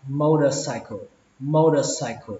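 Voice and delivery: "motorcycle" with t softened to d, "mo-da-sai-kho"; MOTORCYCLE with soft d. Shown as a demonstration. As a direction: say the t in "motorcycle" as a quick d. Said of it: "Cách thứ ba các bạn đọc là".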